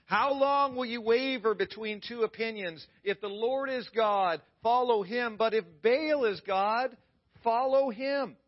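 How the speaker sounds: loud preaching challenge, pitch up; retold yell. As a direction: call out to the crowd like the prophet. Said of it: "Elijah yells out".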